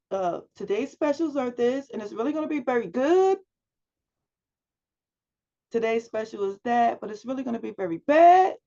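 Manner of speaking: sing-song lilt on the last word of each sentence, a bit fast; singy sentence endings. Shown as a demonstration. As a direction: mimic a student who sings every sentence ending. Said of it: "it was a little singy".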